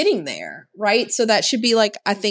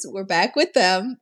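usual speaking voice

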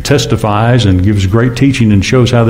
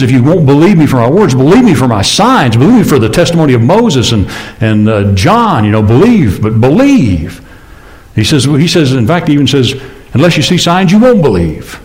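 fervent preaching; 3 semitones higher than usual. Acted. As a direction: preach Jesus' plea with rising fervour. Preacher voicing Jesus' words.

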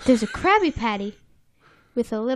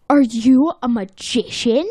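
awed question; 5 dB louder than usual. Acted. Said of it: "And he asks".

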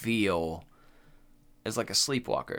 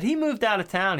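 put-on high kid voice; 10 semitones higher, 3 dB louder than usual. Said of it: "He said".

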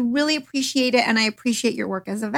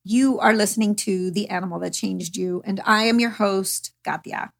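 lightly robotic host intro; slightly stiff, even-toned robot announcer. Real, not acted. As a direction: read it a little like a robot. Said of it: "talking in a robot voice".

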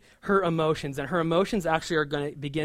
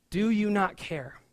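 muttered reproach; 3 semitones higher, slower than usual. Retold or imitated. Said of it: "such biting, uh, words for Jesus".

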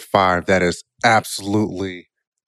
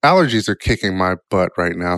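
nasal voice; 5 semitones lower than usual. Real, not acted. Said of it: "if I sound a little nasally".

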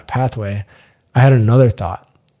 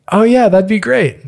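a much higher, chirpy mock roommate voice; eager roommate; 10 semitones higher than usual. Roommate happily agrees to the bath, high eager voice. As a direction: play the roommate cheerfully accepting. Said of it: "she's like".

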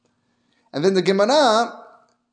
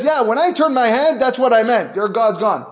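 boastful heretic; 4 semitones higher, 4 dB louder than usual. Retold or imitated. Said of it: "The heretic says".

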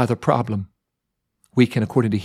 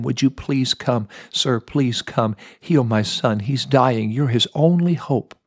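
pleading father. Retold or imitated. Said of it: "he pleaded with him".

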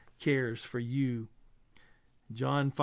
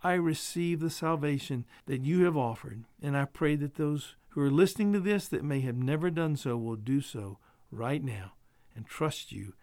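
prayer. Acted. Pastor praying for his listeners, earnest and hushed.

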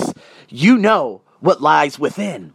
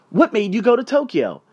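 higher-pitched, inquisitive question; open curiosity; 5 semitones higher than usual. Acted. Stranger asking a traveler about Tokyo, openly curious. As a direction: ask with open interest, modeling a kinder reaction. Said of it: "ask me".

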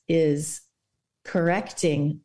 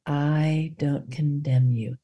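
whisper; 5 semitones lower, slower than usual. Pretend. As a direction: whisper it to the listener. Meditation phrases whispered.

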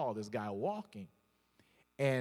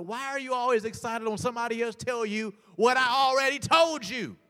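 retold frustrated dad; 9 semitones higher, 7 dB louder than usual. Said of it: "he'd be like".

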